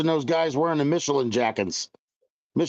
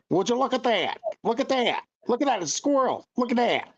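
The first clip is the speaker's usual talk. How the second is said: Joe Biden impression; 8 semitones higher than usual. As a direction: play an old statesman, amazed at a squirrel. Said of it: "Should've went like this, Mater".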